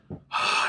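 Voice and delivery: imitated teacher's exasperated sigh. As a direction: let out a mock fed-up breath. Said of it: "she rolls her eyes".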